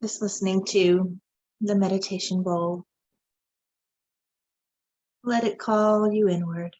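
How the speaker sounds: unhurried meditation voice with long pauses; guided meditation. Acted. Guide leads viewers into meditation after the bowl, calm meditative delivery. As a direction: guide listeners inward, leaving space between phrases.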